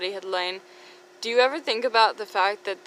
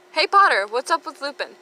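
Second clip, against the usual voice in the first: Snape voice; 6 semitones higher, 6 dB louder than usual. Acted. Snape voiced in read fanfic joke.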